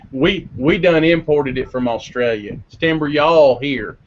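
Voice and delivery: put-on slow, folksy Texan accent; mock Texan, unhurried; Texan slang. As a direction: lay on a slow Texas drawl. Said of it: "it's in kind of Texan slang".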